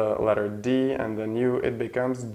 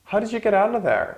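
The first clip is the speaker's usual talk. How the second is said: sentence said much higher, falling at get; high model sentence; 11 semitones higher, 3 dB louder than usual. Shown as a demonstration. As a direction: pitch it up like a surprised question. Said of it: "And the last one".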